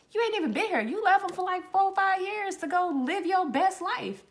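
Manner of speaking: high, loud, indignant telling-off; angry confrontation. Retold or imitated. Retelling a fight over her nephew.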